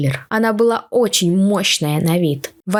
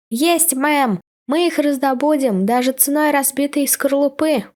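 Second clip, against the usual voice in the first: crackly military radio; 5 semitones higher than usual. Pretend. Soldier answers by radio.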